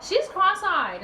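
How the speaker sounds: high, drawn-out mimicry; imitated mocking commenter. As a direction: mimic a rude onlooker, slowly and high. Acting someone commenting on selfie.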